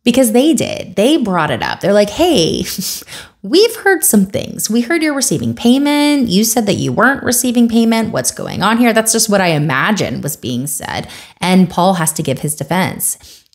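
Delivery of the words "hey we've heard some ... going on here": lightly acted accusatory questioning; confronting accusers. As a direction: imitate suspicious church members calling him out. Voices churches confronting Paul.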